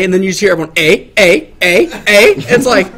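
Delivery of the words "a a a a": repeated questioning "A" like squawking gulls; imitating movie seagulls. Retelling everyone teasing his "A", seagull-like chorus. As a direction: echo "A" over and over like a mocking flock. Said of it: "like the goddamn birds from Nemo".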